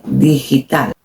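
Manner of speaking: "Digital" with a raspy Spanish H-like G, di-hi-TAL; "Digital" with strong G and stressed final syllable. Shown as a demonstration. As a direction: scrape the G in "Digital" at the throat. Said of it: "es strong G".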